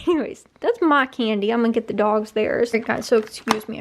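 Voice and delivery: talking around a chocolate; words through a mouthful; mouth full. Real, not acted. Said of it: "I've got chocolate in my mouth".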